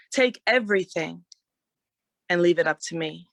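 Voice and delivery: measured spoken word reading; poem recitation. Acted.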